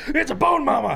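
high laughing quote; laughing through a quote. Retold or imitated. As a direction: giggle out the words. Quoting the skit, laughing.

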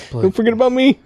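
tiny high voice of a hand; squeaky little hand voice. Pretend. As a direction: speak as a little baby hand. Voicing the extra hand.

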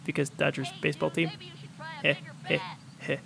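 chuckling at own bad joke; self-conscious giggle, trailing off; laughter turning nervous. Real, not acted. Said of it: "I try, I try".

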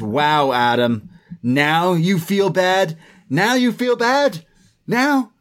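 rising, drawn-out disbelieving repeats; incredulous challenge. Retold or imitated. Wrestling recapper voicing Roderick confronting Adam, incredulous challenge. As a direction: confront a friend in mock disbelief.

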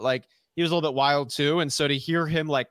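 normal talking voice

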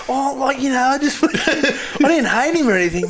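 mock him through laughter; pundit imitated, laughing; imitating Giddo.

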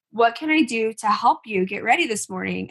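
put-on measured, patient question to a child; calm asking. Mom offering her son help in the morning, calm. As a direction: ask calmly, imitating a patient parent. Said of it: "And I was calm".

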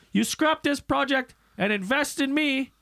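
a hint of a country beekeeper; imitating a hillbilly beekeeper at a town hearing. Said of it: "he goes".

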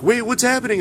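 high, startled question; suddenly thrown, wanting to know; surprised. Retold or imitated. Rushes over to the excited crowd.

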